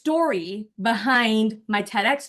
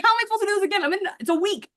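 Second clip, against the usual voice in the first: mock panic at the coach's request; panicked disbelief; 9 semitones higher, much faster than usual.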